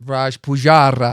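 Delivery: smooth announcer voice, drawn out; radio presenter voice. Pretend. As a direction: say your name like a radio host. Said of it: "You could be on, like, BBC Asia Network with that voice".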